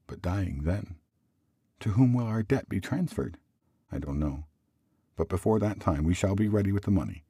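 husband's measured relief, pitch often lifted; husband gently breaking welcome news; lightly voiced husband. Voices husband reporting news to wife.

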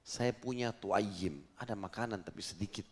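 low, soft voiced aside; retold confidential whisper. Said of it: "dibisikin Nabi sama dia, dia takut orang lain dengar". (menirukan bisikan dengan suara pelan dan rendah)

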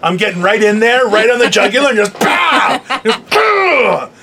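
hammed-up fight threat building to punched pows; mock threatening. Host imitating co-host before a Jell-O fight, mock threatening. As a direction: act out her threat, rising into the pows. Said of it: "she's threatening".

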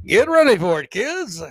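put-on high, sing-song count-in for kids; rally the kids for a big group shout; hyped countdown. Host leads kids in counting to three, high-pitched mock-excited.

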